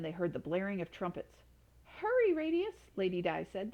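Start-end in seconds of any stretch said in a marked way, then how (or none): 1.8-2.7 much higher and louder, urging him on; urgent call. Acted. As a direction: call out hurry with alarm. Mother urging son, knights coming.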